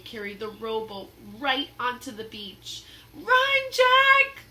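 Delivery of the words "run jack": high, loud warning shout. Acted. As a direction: scream at him to run. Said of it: "shouted Annie".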